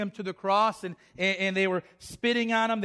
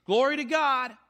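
higher-pitched acted crowd praise; excited praise; 5 semitones higher than usual. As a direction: play a worshipper praising with excitement. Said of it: "that same crowd that was excited".

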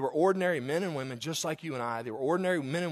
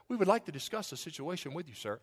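mock formal; 7 dB quieter than usual. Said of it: "They probably said".

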